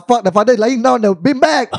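loud, high burst of exasperation; exasperated outburst. Acted. Correcting co-hosts who forgot the beanbag, exasperated. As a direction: blurt it out, voice jumping up.

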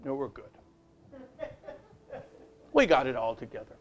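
low, quick mock brush-off; mock churchgoer. Preacher mocking churchgoers hiding demons, low quick brush-off. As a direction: play a smug pew-sitter lightly. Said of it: "They'll be sitting there with their demons".

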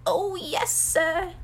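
high, earnest house elf; eager servant in a high voice. A narrator's reading. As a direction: answer earnestly as a little elf. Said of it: "said Dobby earnestly".

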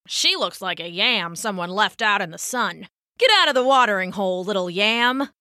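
sneering insult that speeds up near the end; mild mean-girl taunt; taunting bully. Acted. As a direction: shoo her off like a bully. Animals taunt the frog.

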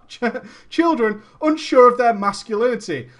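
ordinary talk, nothing marked

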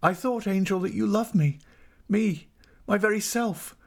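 high, imploring wife; heartfelt high-pitched entreaty; anguished pleading. A narrator's reading. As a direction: implore them in a high, distressed voice. Wife begs husband to love her.

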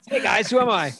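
high, loud voice muffled inside a helmet. Pretend. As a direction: talk like your head is stuck in a helmet. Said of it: "Pat Mahomes does look dumb in a helmet".

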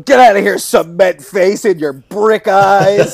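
slow silly insult with laugh; laughing mock insult. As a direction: hurl a goofy insult.

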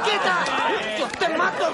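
high, loud threatening yell; furious shout. Acted. Hamudi shoving off Rucos, shouting in a rage. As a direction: scream it mid-scuffle. Fight breaks out in street.

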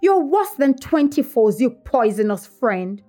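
indignant, starting high and easing down; acted reproach, heated at the start; angry accusation. A narrator's reading. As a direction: throw it at a false friend. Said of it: "she repeated angrily".

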